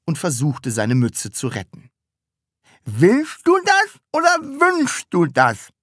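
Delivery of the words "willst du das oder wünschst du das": high, loud, slow chewing voice. A narrator's reading. Sams questioning Taschenbier while eating, chewing. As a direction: ask it through a mouthful. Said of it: "fragte das Sams kauend".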